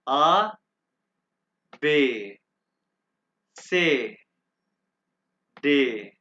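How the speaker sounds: letters said one by one with long pauses; teacher's second full reading of the letters; German alphabet recital. Shown as a demonstration. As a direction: spell out the German alphabet for the class. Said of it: "अब मैं दोबारा इसको pronounce करूंगा".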